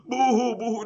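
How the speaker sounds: imitated wordless crying; mock boohooing. Preacher showing what he wasn't doing, mock boohooing. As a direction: put on a playful fake boohoo. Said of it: "he wasn't just boohooing".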